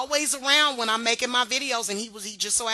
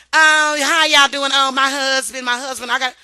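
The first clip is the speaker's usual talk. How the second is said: mock married vlogger; 3 semitones higher, 11 dB louder than usual. Imagined married woman greeting viewers, hammed-up gushing. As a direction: put on a gushing wife showing off.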